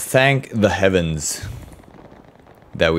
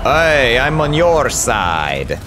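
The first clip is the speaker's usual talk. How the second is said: mock Italian accent; 5 semitones higher, slower than usual. Real, not acted. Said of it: "became Italian all of a sudden".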